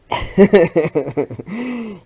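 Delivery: long, high, loud laugh; helpless drawn-out chuckling; rueful laugh. Real, not acted. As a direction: laugh at your own mishap. Rueful laugh at last night's failure.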